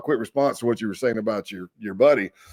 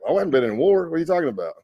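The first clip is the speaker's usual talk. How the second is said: higher-pitched retold disbelief; incredulous; 7 semitones higher, faster than usual. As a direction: replay your baffled protest, pitched up. Baffled by his PTSD diagnosis.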